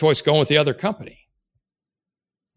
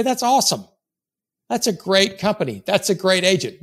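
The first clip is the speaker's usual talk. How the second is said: higher-pitched, enthusiastic praise; 6 semitones higher than usual. Shown as a demonstration. Sales coach models praising a prospect's chosen company, enthusiastic. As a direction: congratulate with real enthusiasm, pitched up. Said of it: "say that with enthusiasm".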